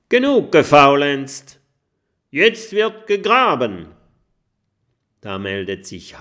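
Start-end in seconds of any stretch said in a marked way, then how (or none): 0.1-3.9 loud, high barked order to the crew; pirate captain shouting. Acted. Captain Jim yelling at his crew to dig. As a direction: bellow at the lazy pirates to start digging. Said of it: "der schlimme Jim ruft".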